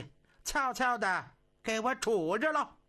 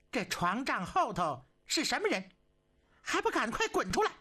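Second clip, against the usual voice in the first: sharp, rising, faster command to come out; angry demand; 3 semitones higher than usual. Acted. Empress orders the hidden man out, angrily.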